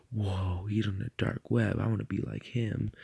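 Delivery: lightly voiced awestruck kid after a gasp; gasp, then play a mildly hammed-up impressed child; imitated little kid. Streamer imitating little kids impressed by the dark web, mock awe. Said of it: "little kids being like".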